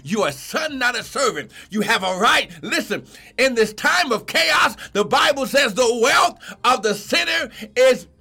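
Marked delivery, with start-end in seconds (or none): 2.6-8.1 stretched-out sermon emphasis; fervent preaching. Real, not acted. Preacher promising the righteous the sinner's wealth, fervent preaching. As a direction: preach it with conviction, drawing out key words.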